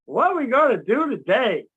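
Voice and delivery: cartoon deer excited. Voicing Bambi waking up, lightly excited. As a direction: chirp it like a happy fawn. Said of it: "And it says".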